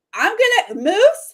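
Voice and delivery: very high-pitched, loud yell. Retelling how she ran to get him, retelling her yelling moose. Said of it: "She's like yelling Moose".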